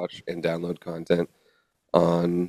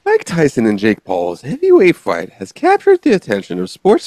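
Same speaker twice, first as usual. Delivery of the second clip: formal anchor read, louder and higher; newscaster voice; 4 semitones higher, 5 dB louder than usual. Pretend. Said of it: "Why are you talking like that?".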